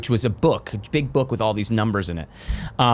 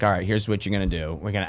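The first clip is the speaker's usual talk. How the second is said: Teamster voice; 4 semitones lower, 5 dB quieter, faster than usual. Retold or imitated. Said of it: "like, Teamster voice".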